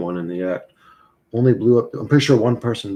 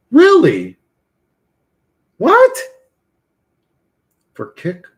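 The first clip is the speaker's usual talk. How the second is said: surprised; 12 semitones higher, 11 dB louder, slower than usual. Real, not acted. Shocked streamers get paid hourly.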